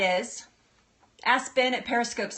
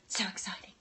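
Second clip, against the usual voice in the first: whispered thrill; hushed aside while opening the jar; excited whisper; 3 semitones lower, 10 dB quieter than usual. Real, not acted. Peeking at the kombucha batch.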